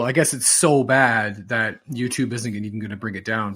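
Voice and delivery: usual speaking voice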